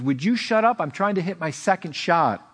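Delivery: mock exasperation, starting high; frustrated retort. Frustrated golfer answers back to the announcer, mock-exasperated. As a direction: imitate a golfer finally losing patience. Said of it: "the guy gets so frustrated".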